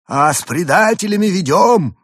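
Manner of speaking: lightly voiced alien. A narrator's reading. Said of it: "подтвердил Бур". (голос пришельца)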